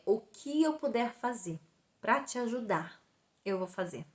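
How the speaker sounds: sincere promise. Retold or imitated. Doctor promises to help her.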